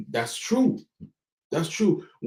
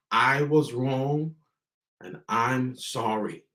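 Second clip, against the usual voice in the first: slow model phrase; slower than usual. Shown as a demonstration. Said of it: "Say it with me, parents".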